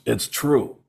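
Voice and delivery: slow, deadpan rock star impression. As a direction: deliver the jab slowly in an imitated voice. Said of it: "And he goes".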